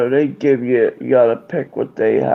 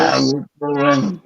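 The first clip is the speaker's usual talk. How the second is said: alien voice; slower than usual. Pretend. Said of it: "It's like the alien voice".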